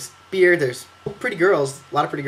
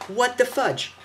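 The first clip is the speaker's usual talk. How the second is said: mock outrage; 8 semitones higher, 4 dB quieter, much slower than usual. No place to sit.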